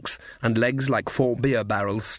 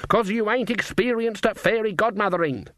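much higher-pitched, indignant put-down; indignant retort; 9 semitones higher than usual. A narrator's reading. Granny rebuffs Magrat's wish to go alone, indignant. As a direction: shoot the idea down in a high, scolding voice.

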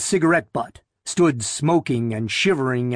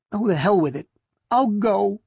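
higher-voiced, resigned consent; reluctant giving in; 6 semitones higher than usual. A narrator's reading. Wife agreeing to go to the library, reluctant. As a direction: give up the protest and agree unwillingly. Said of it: "Her voice sank".

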